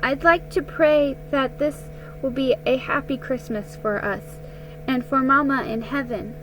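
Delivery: lightly voiced young girl, steady; small girl voice. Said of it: "voice was small but steady".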